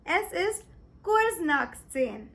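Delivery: careful, slow German; "drei vor zwölf" said slowly and clearly; slow German demo. Shown as a demonstration. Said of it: "Or you can say it as".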